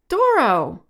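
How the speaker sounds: calling out. A narrator's reading. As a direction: call a name across the water. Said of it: "Franz called out".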